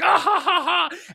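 high, loud mock laugh of a roomful of adults; mocking hysterical laughter. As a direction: mimic adults laughing their heads off at you. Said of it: "the room full of adults are hysterically laughing".

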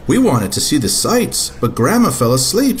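put-on a girl asking eagerly; little girl voice. Katy voiced.

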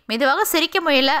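usual speaking voice

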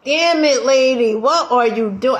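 frustrated yell at the workout video; exasperated outburst. Retold or imitated. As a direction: snap at the lady on screen. Pissed at workout instructor.

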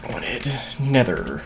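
hiccuping between words; hiccups. Real, not acted. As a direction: talk through hiccups. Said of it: "hiccuping and dying".

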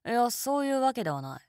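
ordinary talk, nothing marked

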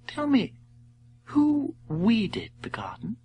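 high, hushed princess question; gently curious princess; cartoon princess. Princess character voice.

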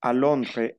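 "Londres" ending without an S sound; silent final S. Shown as a demonstration. Teacher repeats for the class, Londres with silent S. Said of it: "no pronuncio la S final".

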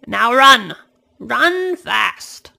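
put-on old man calling Amanda to run; urgent call. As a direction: push her to run, loud.

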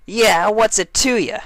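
high, loud and challenging; defiant Dash. A narrator's reading. Dash challenging the registrar, high and defiant. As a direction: snap back with high attitude.

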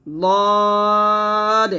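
লদ said thick and full; heavy dad. Shown as a demonstration. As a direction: give লদ a heavy, thick sound. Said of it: "মোটা করে উচ্চারণ". (লদ মোটা করে)

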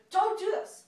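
high, loud pleading; a wife shouting to stop her husband; shouted plea. Acted. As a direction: beg him to stop, at full voice. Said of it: "Madame Orso shouted".

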